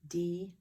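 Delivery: Delay broken into dee, pause, lay; Delay as two separate beats; split syllables. Shown as a demonstration. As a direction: mark both syllables of Delay with a gap between. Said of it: "It's two syllables".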